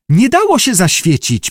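put-on high, girlish squeaked protest; squeaking. A narrator's reading. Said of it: "pisnęła Judy". (piskliwy, wysoki głosik)

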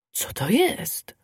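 slow whisper to himself; a sly fox whispering. Acted. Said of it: "szeptał sam do siebie".

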